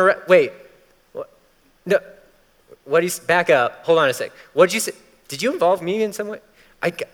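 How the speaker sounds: high, sudden alarm; alarmed double take. Retold or imitated. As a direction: stop short in disbelief, backpedaling. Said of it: "He's like".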